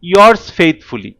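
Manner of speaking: very slow, each word drawn out: "yours faithfully"; slow dictation. Shown as a demonstration. Teacher dictating a letter closing to students, very slow. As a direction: spell out "yours faithfully" slowly for the class to copy. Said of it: "যখন official চিঠি লিখছি".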